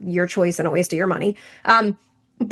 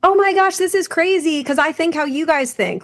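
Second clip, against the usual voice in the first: excited client; 8 semitones higher than usual. Retold or imitated. Former client texting coaches, gushing excitedly high. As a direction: gush like an amazed former client.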